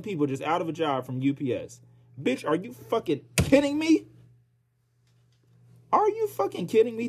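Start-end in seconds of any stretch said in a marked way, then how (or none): 2.2-7.1 higher, shrieking disbelief; can't believe it, pitch flying up; outraged disbelief at mass layoffs; incredulous. Real, not acted. Outraged at twelve thousand layoffs.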